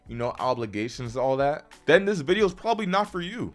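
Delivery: heated, exasperated rant; getting mad. Real, not acted. Creator telling off viewers who make excuses, mad. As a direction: scold the viewer with rising impatience. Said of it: "I had to get mad right there".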